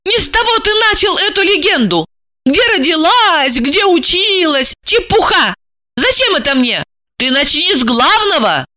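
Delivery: high, hurt and indignant; offended. A narrator's reading. Offended wife to her handler, high indignant. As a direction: scold him in wounded pride. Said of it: "Ей стало обидно".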